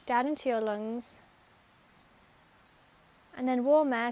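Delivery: calm meditation guide with long pauses between phrases; unhurried, even delivery, leaving room to breathe; guided meditation. Real, not acted. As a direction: lead them gently into focusing on the breath.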